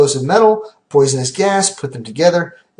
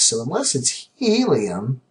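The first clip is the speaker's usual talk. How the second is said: voice crack; slower than usual. Real, not acted. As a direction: voice cracking on helium. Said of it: "you like that voice crack in there".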